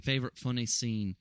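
British accent drifting into Australian; botched British accent sliding toward Australian; bad British accent. Shown as a demonstration. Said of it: "See, it becomes Australian".

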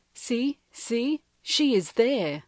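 excited but voiced, not truly whispered. A narrator's reading. Aniwi spots her child among the sleeping group, excited. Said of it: "whispering excitedly".

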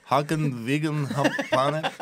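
teasing imitation in a Russian accent; mock Russian accent. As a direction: mimic it back as a hammy Russian. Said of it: "say that like you're Russian".

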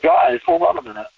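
stopping the room with a high, pleading call; retold exasperated call. To fellow conspiracy fans, a high exasperated call to stop. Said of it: "I'm looking at this and I'm like".

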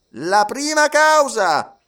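high, slow magistrate's call; judge Obadiah. A narrator's reading. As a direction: open the session like a pompous judge. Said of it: "riprese il giudice Obadiah". (giudice solenne, acuto e lento)

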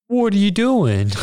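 high-pitched, drawn-out alarmed cry; hammed-up frightened question; mock panic. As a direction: wail it high as if under attack. Voicing woman being attacked, running.

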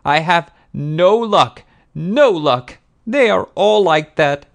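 high, loud self-pitying wail; woeful woman pleading her hard luck, very high; tearful falsetto. A narrator's reading. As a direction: lament piteously in a put-on falsetto. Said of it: "those tearful falsetto tones".

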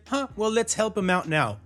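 dry mock-casual parent voice; a sarcastic little shrug in the voice. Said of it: "that was me being sarcastic".

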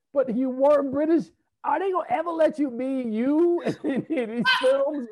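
high, exclaiming protest breaking into laughter; mock disbelief. Interviewer teases actor about never playing British, mock disbelief. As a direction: protest in playful astonishment.

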